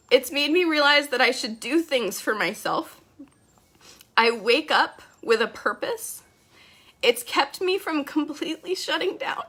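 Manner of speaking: reading through real tears; choked up while reading aloud; crying. Real, not acted. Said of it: "Okay, so I'm gonna cry more".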